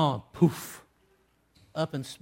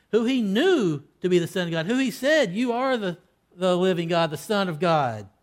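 fervent exclaim; 2 semitones higher, 5 dB louder than usual. Retold or imitated. Preacher recalling Peter's confession to the congregation, fervent and louder. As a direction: proclaim it with rising fire.

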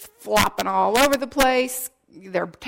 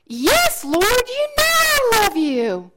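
higher, louder, slower insistent reply; emphatic plea; 11 semitones higher, 6 dB louder, slower than usual. Acted. Peter's third answer to Jesus, loud and pleading. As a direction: press it out with all his heart.

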